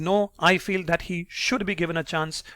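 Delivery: firm disagreement leaning on "should"; emphatic "should" as a counter-argument; stress on should. Shown as a demonstration. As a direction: make "should" the strong word. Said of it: "stress on the word can and should".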